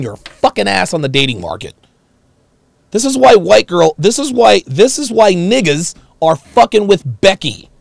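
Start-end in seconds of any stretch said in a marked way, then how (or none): 2.9-7.7 loud emphatic rant. Real, not acted.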